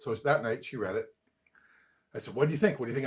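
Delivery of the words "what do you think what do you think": keyed-up retold eagerness; excited pestering. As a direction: press her for an answer, bursting with excitement. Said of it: "I'm all excited".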